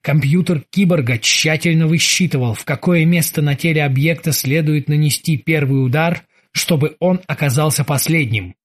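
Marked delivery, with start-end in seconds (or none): none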